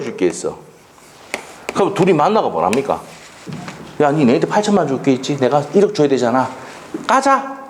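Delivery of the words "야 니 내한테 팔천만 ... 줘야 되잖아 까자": casual Gyeongsang deal-making voice; Gyeongsang dialect. Acted. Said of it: "경상도는 "까자".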